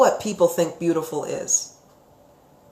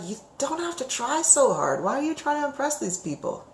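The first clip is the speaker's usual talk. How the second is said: higher and much softer, tender and reassuring; a soft, kind plea to a man trying too hard; gentle consoling; 6 semitones higher, 7 dB quieter than usual. Pretend. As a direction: soothe him like you're about to hug him. Imagined consoling a struggling man.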